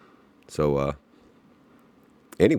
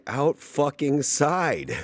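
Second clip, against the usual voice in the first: high, drawn-out mock exclamation; imitated cry of astonishment; amazed outburst; 8 semitones higher, much slower than usual. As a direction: stretch each word slowly, pitched way up. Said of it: "He comes running out of the forest like".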